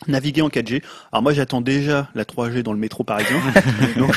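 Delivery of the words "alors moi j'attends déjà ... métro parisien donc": chuckling through the joke; wry laugh at the end. Real, not acted. Ironic joke about metro signal.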